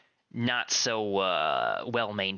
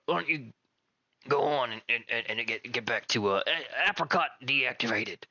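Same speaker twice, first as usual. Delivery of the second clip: flustered Rock; 3 semitones higher than usual. Acted. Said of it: "Rock's like".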